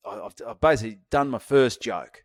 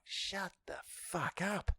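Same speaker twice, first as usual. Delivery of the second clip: muttered retort; 8 semitones higher, 12 dB quieter, much slower than usual. Retold or imitated. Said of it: "I'm like".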